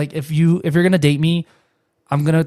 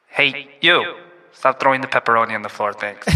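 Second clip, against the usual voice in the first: store announcer voice; 2 semitones lower than usual. Pretend. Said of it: "announcer voice".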